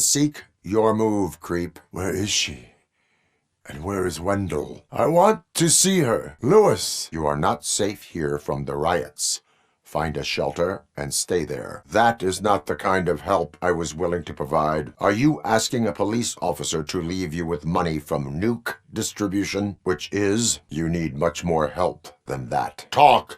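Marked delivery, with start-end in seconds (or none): 4.9-7.1 high-pitched, insistent yell; urgent shouted demand. Acted. Officer calling for Lewis, high urgent shout. 22.9-23.3 high, loud one-word command; barked order. Acted. Officer demanding answers from a suspect, loud barked order.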